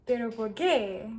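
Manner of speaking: Paisa intonation, pitch rising and falling; Paisa accent. Shown as a demonstration. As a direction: sing it with Paisa melody. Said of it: "very unique intonation where it's like".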